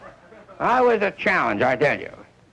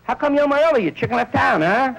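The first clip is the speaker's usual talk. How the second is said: sarcastic wife; 9 semitones higher than usual. Retold or imitated. Wife confronts husband.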